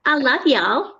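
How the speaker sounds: copying an American "y'all"; attempted American accent. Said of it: "I cannot do the American accent".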